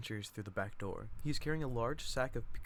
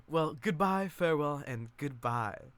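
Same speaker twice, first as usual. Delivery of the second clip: louder mock-dramatic goodbye; grand farewell; 3 semitones higher, 5 dB louder than usual. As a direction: sweep out with a showy farewell. Chick's grand exit.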